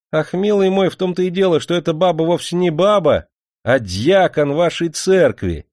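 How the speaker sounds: high, loud, spluttering with laughter; blurted through laughter. Acted. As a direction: blurt it out in a fit of giggles. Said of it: "в новом припадке смеха выпалил актёр". (выпалил, давясь смехом)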